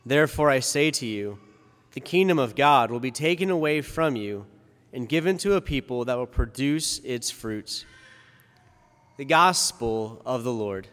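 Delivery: formal liturgical reading voice; Gospel reading. Acted. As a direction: proclaim the Gospel solemnly.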